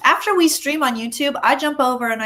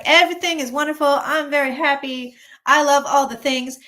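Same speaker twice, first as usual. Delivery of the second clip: gushing mock RFK; 3 semitones higher, 5 dB louder than usual. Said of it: "He's like".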